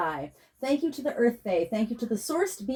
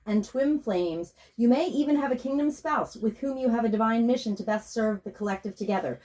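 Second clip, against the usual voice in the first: scripted intro read. Acted. Healer introducing her session to listeners, calm and even.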